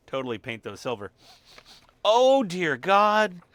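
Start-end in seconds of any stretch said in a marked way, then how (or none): 2.0-3.4 loud, slow, drawn-out disgust; disgusted outcry. Real, not acted. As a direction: recoil from the stench. Dog's bad smell.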